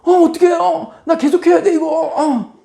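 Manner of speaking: very high, loud sing-song mockery; taunting nurse. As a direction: taunt the scalded patient sweetly. (아주 높고 크게 비꼬는 간호사)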